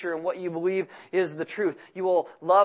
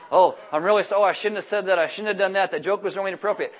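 mock flustered apology, a little louder; hammed-up embarrassed apologizing; imitated apology; 3 dB louder, faster than usual. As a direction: play people stumbling over themselves to apologize. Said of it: "how many times people apologize to me".

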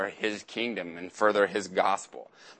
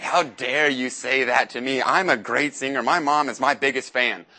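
a touch louder, hammed-up offended singer; mock indignation; 4 semitones higher, 5 dB louder than usual. Contestant to the judges, mildly mock indignant. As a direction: play a rejected contestant's huff. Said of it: "And they get so angry".

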